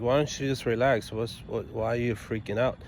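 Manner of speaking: calm, softened retelling. Retold or imitated. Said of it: "I very calmly said to her".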